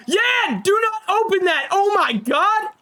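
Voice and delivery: high, loud frantic warning; panicked shout. Acted. Warning friend near sleeping lion.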